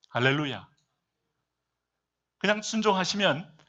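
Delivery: ordinary delivery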